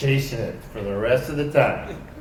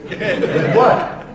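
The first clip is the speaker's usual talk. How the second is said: laughing disbelief; 9 semitones higher than usual. Retold or imitated. Repeats question, rising in laughing disbelief.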